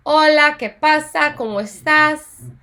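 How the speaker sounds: slow casual greetings. Shown as a demonstration. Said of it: "formal versus informal greetings".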